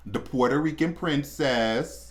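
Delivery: slow, drawn-out mock title; sarcastic. Real, not acted. Host naming a girl she hates in celebrity news, sarcastic. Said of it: "I say that sarcastically".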